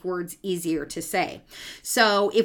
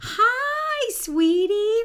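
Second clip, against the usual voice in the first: put-on very high, sing-song baby voice; baby talk; 4 dB louder, much slower than usual. Shown as a demonstration. Parent showing how we talk to a baby, cooing high. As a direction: coo up high like greeting a baby. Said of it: "we get in this kind of higher pitch".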